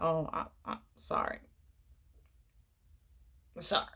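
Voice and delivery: whispered, embarrassed apology; sheepish whisper. Retold or imitated. Sam whispering a sheepish apology to the first lady. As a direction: back off in a hushed whisper. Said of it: "And he's just like".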